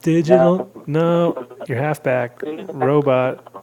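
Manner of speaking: loud, high call to the phone; shouting into a phone. Real, not acted. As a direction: raise your voice over a bad line. Caller breaking up on phone.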